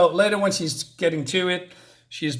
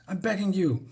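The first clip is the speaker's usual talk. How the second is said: higher, softer acted plea; mock panicked begging; 4 semitones higher, 5 dB quieter than usual. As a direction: beg in a small, mildly desperate voice. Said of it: "Nomi is, is panicking".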